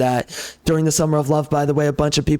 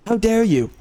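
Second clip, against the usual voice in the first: "How dare you?" pitched higher, mock-indignant; mock outrage; 5 semitones higher than usual. Vlogger mocks critics of police, pitched high in mock outrage. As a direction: sneer it up high like a scandalised scold.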